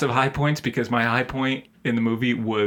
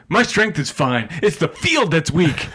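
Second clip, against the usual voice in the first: mock-angry Southern retort; Southern accent, higher on the punchline; strong Southern accent; 5 semitones higher than usual. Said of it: "says it with a real strong accent".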